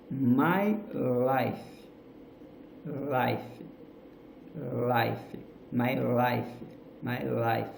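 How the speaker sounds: "my life" said slowly, tongue back on "my" and forward on "life"; pronunciation demo. Shown as a demonstration. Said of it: "For example".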